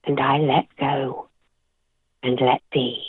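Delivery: measured, deliberate poetry reading with long pauses; poem reading. Acted. Guest reads her poem Storm to the host, measured poem reading. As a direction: read it like a poem you wrote yourself, letting each line land.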